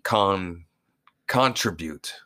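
"contribute" with the first syllable set apart as CON; imitated contribute. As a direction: mimic his "contribute", leaning on "con". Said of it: "just the way he says contribute".

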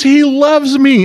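high, slow and doting; imitating granddaughter. Grandpa voicing granddaughter doting on the cricket, high and slow. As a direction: coo it like a smitten little girl. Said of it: "She goes".

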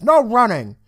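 mock teacher yell at a kid in the hallway. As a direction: yell it like a teacher stopping a runner. Teacher yelling at running student.

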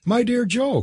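high-pitched, astonished protest; exclaiming. A narrator's reading. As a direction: cry out to a friend in disbelief. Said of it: "cried Kathleen".

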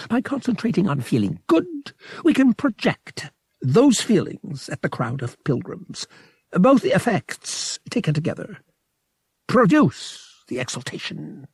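a big, pompous alien creature savoring his words; alien priest voice. A narrator's reading. Verotil continues explaining.

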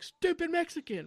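high, drawn-out contemptuous insult; mock contempt. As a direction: imitate a scornful bigot, stretching the words. Retold woman's insult.

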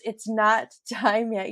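words squeezed out between laughs, slowed; gasping it out mid-giggle; laughing through words. Retold or imitated. Narrator retelling her ride, laughing through the line. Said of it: "but I started laughing so hard".

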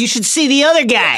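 joking through a laugh. Retold or imitated. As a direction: laugh while delivering the line. Quoting Hagrid's joke.

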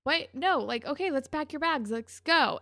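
rally her to leave right away; retold boyfriend's keen urging; eagerly supportive. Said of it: "he's being so supportive".

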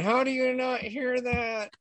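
slow, high disbelieving question; imitating baffled friend; incredulous quote. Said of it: "She's, like, sitting there going".

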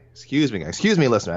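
clearing a dry throat. Real, not acted. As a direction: speak through a dry, scratchy throat. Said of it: "my throat is so dry this morning".

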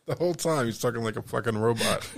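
ordinary talk

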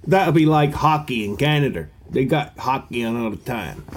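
a faint, badly faked Canadian accent; barely-there Canadian accent, half a try; terrible Canadian accent. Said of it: "That's a terrible Canadian accent".

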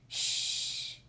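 breathless hushing whisper; whispered shush. Acted. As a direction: hush them in a whisper. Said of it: "Woody whispered".

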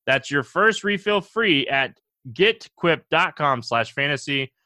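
URL read at normal ad pace; just say the web address. Shown as a demonstration. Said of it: "G E T Q U I P dot com".

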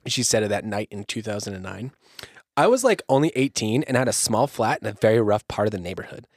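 lightly voiced valley girl teen; breezy teen girl, lightly. Victim's account read as a light valley girl. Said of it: "You're getting Valley girl".

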